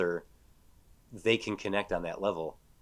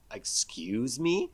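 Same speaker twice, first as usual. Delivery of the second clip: offended whisper; 2 semitones higher, much slower than usual. Retold or imitated. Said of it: "And she's like".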